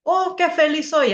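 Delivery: P=B; exclamation with stressed qué. Shown as a demonstration. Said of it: "en exclamaciones".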